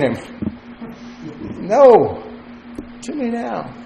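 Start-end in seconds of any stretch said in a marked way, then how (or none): 1.7-3.7 grab him and demand the money; mock angry demand. Unforgiving servant choking the debtor, angry demand.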